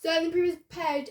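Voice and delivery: fast, rushed mock confident read; rushed confident speech. Shown as a demonstration. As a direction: hurry through it with mock confidence. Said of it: "so then we confident speech".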